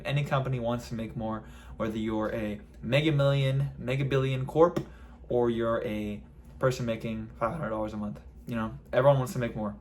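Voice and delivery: talking around a retainer; slight lisp from a retainer; wearing a retainer. Real, not acted. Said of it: "I'm really fighting the retainer here".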